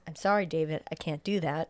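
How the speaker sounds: low, quiet and even machine voice; a hint of a cold, polite AI; calm computer voice. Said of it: "And Hal says".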